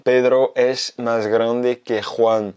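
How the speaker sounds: slow, careful Spanish example; slow demo. Shown as a demonstration. Teacher reading a Spanish example slowly to French learners. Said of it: "je vais donner un exemple".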